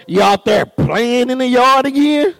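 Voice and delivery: imitating a wife's accusing query; nagging wife. Wife questioning husband about yard work, mock accusing. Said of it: "I mean, my wife".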